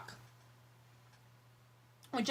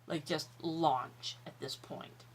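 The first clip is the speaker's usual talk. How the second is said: whispered; 5 semitones lower, 9 dB quieter than usual. Retold or imitated. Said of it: "it's just like".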